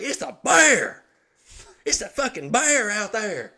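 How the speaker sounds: very high, loud mock shriek; hammed-up cry of alarm, drawn out; panicked wife. Wife sprints back inside having seen a bear, high panicked yell.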